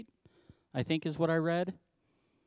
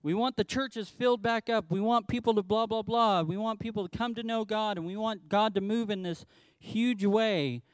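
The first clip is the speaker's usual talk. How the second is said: higher, eager churchy pleading; mock fervent plea; 5 semitones higher than usual. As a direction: parody believers crying out for revival. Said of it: "We cry out and we say".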